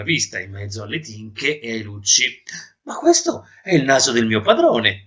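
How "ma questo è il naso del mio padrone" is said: mildly horrified, a little louder; horrified exclamation. Acted. Maid spots her master's nose at market, mildly horrified. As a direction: exclaim with a touch of horror. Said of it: "esclamò inorridita".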